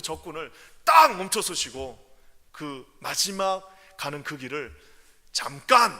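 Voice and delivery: loud, slow, emphatic preaching; forceful preaching. Acted. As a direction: drive it home from the pulpit. Preacher building to climax.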